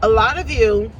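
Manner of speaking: talking through a mouthful of food; words round a bite; mouth full. Real, not acted. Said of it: "sorry I'm eating with my mouth full".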